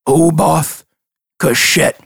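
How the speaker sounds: each part separated by a pause; slow and clear. Acted. Old man repeats the name for gnome, slow. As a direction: spell it out slowly, in two chunks. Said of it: "slow enough that you understand".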